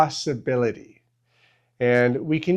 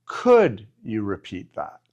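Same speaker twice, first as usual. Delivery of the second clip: polite request; 4 semitones lower than usual. Shown as a demonstration. Teacher to learners, showing the polite request with a lower pitch. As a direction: ask Could you repeat that gently, with a lower pitch. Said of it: "could sometimes sounds a little bit better".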